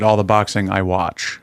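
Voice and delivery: slow, limp imitation of him; imitating unmanly voice. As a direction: mimic him sounding unmanly. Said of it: "it sounded manly until you said".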